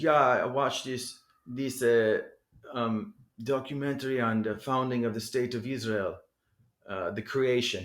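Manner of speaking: put-on German accent. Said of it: "I'm imitating a German accent".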